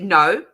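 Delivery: No said loud again, no R on it; punchy repeat of No without R; emphatic no. Shown as a demonstration. Proving to her friends she says No without an R.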